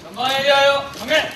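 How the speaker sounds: slow, drawn-out drill command; korean military style. Acted. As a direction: call the salute like a drill sergeant.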